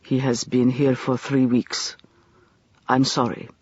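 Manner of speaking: gentle. A narrator's reading. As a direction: break the bad news kindly. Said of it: "said gently".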